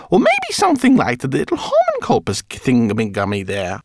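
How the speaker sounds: very high chirpy rat voice; squeaky rat. A narrator's reading. Rat pilot meeting the professor, squeaky and eager. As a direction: greet him like an eager tiny fan.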